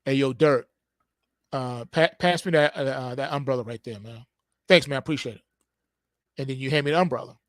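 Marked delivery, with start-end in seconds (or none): 0.0-5.4 low, easygoing, hesitant ask; polite casual request. Shown as a demonstration. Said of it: "If I said to you".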